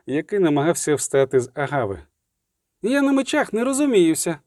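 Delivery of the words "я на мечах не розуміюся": panting. Acted. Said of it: "просапав поет".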